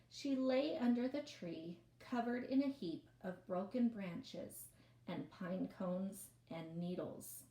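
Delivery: lively read-aloud storytelling voice; story narration. A narrator's reading. Reads novel aloud to class.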